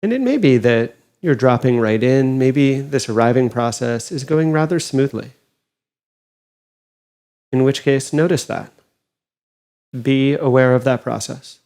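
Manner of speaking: calm, unhurried meditation guide with long pauses; guided meditation. Acted. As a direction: gently guide them inward, leaving space between phrases.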